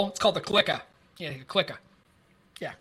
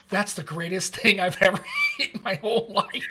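laughing delight; 3 semitones higher than usual. Retold or imitated. Retelling eating a fresh donut.

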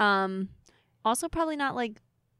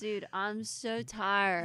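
put-on Californians accent; 4 dB quieter, much slower than usual. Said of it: "doing that shitty accent from the Californians".

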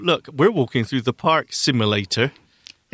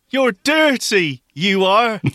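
duck voice; 7 semitones higher, slower than usual. Pretend. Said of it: "To me, they say".

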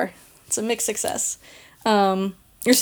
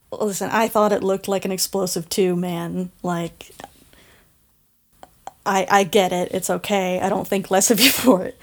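reassuring buddy; 3 semitones lower than usual. Acted. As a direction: gently reassure him it's okay. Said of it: "pats his shoulder and is like".

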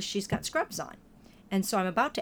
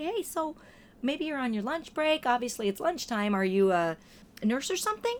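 much higher, bright friendly asking; cheery high question; 5 semitones higher than usual. Retold or imitated. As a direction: lift the voice to sound friendly to a stranger.

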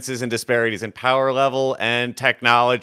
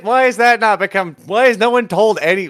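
excited outburst; 9 semitones higher, 5 dB louder than usual. Real, not acted. Indignant outburst at hidden fact.

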